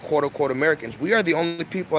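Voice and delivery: ordinary talk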